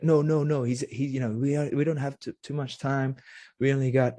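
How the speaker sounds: butting in. Retold or imitated. Assistant interrupting to protect the scientist's time, mildly protesting. Assistant butts in to refuse request.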